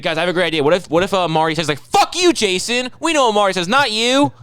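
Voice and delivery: squeaky high put-on Ruth, mocking; high-pitched parody of Ruth taunting Jason. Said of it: "the voice of Ruth that fucking well".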